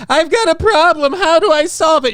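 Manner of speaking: high whiny plea for help; whiny girl voice. Retold or imitated. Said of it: "cry to the internet".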